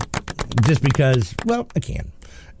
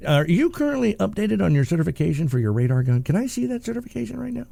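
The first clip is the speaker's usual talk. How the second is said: mock challenge; 8 semitones higher than usual.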